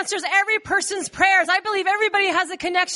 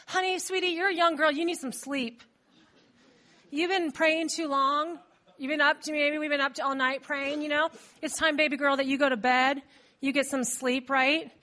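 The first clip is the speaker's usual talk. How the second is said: lower, softer, coaxing voice; patronising soothing; 4 semitones lower, 4 dB quieter than usual. Acted. Believers send young Rhoda to bed, soothingly patronising. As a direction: humour an overexcited child gently.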